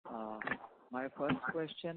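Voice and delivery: barely audible, off the mic; faint speech from a distance; very low voice. Real, not acted. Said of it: "Your voice is very low".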